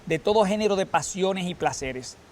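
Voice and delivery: measured, solemn reading from the lectern; liturgical reading. Acted. Lector reading Paul to the congregation, solemn.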